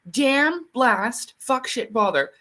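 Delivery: a light British swearing string; imitating British mother. Retelling a friend's British mother cursing, lightly British. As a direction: rattle off the curses like a British mum. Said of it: "Jenny's mother was British".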